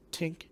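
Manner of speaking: soft, tiny clinking noise; imitated tink. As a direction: mimic a faint plink, softly. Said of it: "I hear just the".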